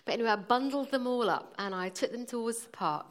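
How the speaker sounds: ordinary talk, nothing marked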